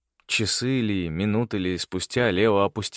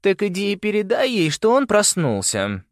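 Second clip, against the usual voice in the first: put-on high, loud weary girl's voice; a tired girl sending him off; 13 semitones higher, 5 dB louder than usual. A narrator's reading. Winter sending Felix out, tired but loud. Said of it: "произнёс кто-то устало".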